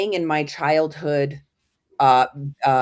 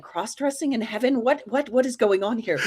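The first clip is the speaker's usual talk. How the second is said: higher, laughing bewildered questions; amused disbelief; 7 semitones higher than usual. Retold or imitated. Granddaughter baffled by a photo of grandfather in wigs, laughing. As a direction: laugh through the confusion.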